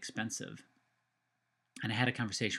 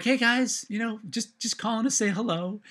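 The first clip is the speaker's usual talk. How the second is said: bright, much higher and louder greeting; cheery phone hello; 12 semitones higher, 6 dB louder than usual. Retold or imitated. Calling mom and dad from the car, overly cheery hello. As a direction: sing out a hello to your parents. Calling parents after sad talk.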